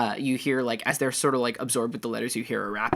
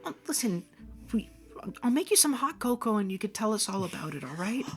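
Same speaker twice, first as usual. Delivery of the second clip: comforting mom; 12 semitones higher than usual. Acted. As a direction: soothe a crying child. Mom comforts crying child.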